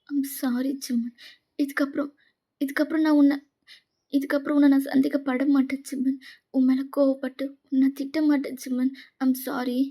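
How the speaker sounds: halting promise through tears; remorseful, stumbling restarts; tearful apology. Acted. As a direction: vow it earnestly, near crying. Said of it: "அழாதடி".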